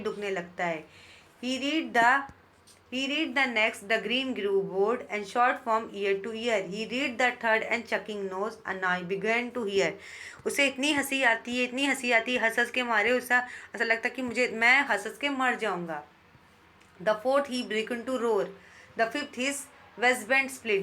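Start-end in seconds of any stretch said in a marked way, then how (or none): 1.4-9.9 very slow, deliberate reading of verse; teacher reading poetry aloud; poem recitation. Shown as a demonstration. 17.0-20.8 very slow, deliberate reading of verse; teacher reading poetry aloud; poem recitation. Shown as a demonstration.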